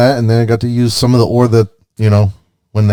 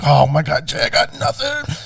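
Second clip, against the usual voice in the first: mock despair; 6 semitones higher, 4 dB quieter than usual. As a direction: re-enact helpless dismay, pitched way up. Re-enacting despair to friend.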